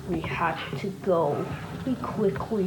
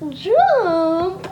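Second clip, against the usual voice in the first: loud urgent yell to jump; shout; 10 semitones higher, 8 dB louder than usual. Acted. Boy yelling at his friend to jump as police break in, a loud shout. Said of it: "I yelled".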